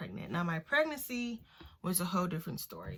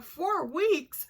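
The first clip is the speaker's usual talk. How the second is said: shocked question; 11 semitones higher, 4 dB louder than usual. Retold or imitated. Hearing surprising pregnancy news.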